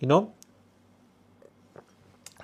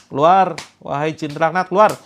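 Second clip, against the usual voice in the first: stern command; 7 dB louder than usual. Shown as a demonstration. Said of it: "Yang kenceng, yang galak".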